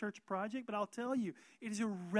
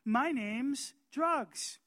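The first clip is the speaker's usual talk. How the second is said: temptation introducing itself; 6 semitones higher, 7 dB louder, slower than usual. Pretend. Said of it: "the temptation's gonna respond and say".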